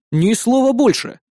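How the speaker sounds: firm, drawn-out command; growled retort. A narrator's reading. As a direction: cut her off with a slow growl. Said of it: "рыкнул я в ответ".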